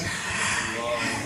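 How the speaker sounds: big breathy mock sigh; imitated sigh. Imitating the women's reaction to his answer, audible sigh.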